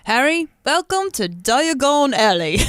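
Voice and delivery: imitated husky giant welcoming a boy; Hagrid. Hagrid welcomes Harry to Diagon Alley, imitated husky voice. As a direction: play a big husky guide presenting a wonder. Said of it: "All I could think about was Hagrid".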